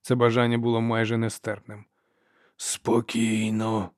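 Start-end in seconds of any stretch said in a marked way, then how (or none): 2.6-3.9 slow, breathy warning whisper; old man calming Ferro, whispered slowly. A narrator's reading. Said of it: "прошепів Юлвей".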